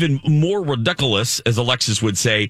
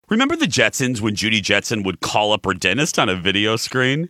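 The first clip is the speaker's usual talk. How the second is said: ad read; 4 semitones lower than usual. Real, not acted. Reads a dental ad.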